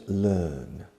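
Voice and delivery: "learn" in British English, no R sound; British-style "learn" with a long vowel; British pronunciation. Shown as a demonstration. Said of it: "In British English".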